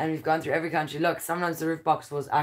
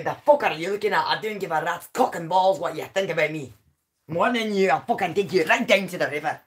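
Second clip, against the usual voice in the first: mock-rude Scottish comeback; lightly hammed-up Scottish threat; Scottish accent; 3 dB louder than usual. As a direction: hit back in a Scottish accent. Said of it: "Can you do a Scottish accent?".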